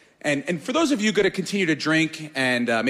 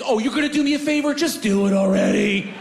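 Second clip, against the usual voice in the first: sarcastic indignation; 6 semitones higher than usual. Retold or imitated. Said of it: "You're like".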